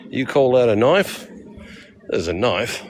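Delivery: badly faked Australian movie-quote voice; Australian accent. All the Australian he can do, mock Australian accent. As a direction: ham up a mock Australian challenge. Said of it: "That's all I can do".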